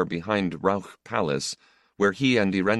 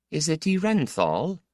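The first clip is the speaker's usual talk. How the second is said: higher worried mother voice; mother's voice; 10 semitones higher than usual. A narrator's reading. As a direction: voice the anxious mother.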